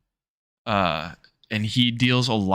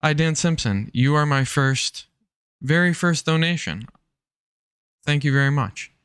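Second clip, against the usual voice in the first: higher, bright-eyed thank-you to a donor; excited thanks; 6 semitones higher than usual. Real, not acted. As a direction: gush over your first donation. Greeting first donor excitedly.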